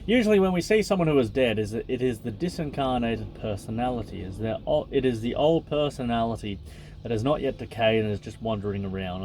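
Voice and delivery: even, measured reading voice; book reading. Acted. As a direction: read the passage out steadily. Reads the book aloud.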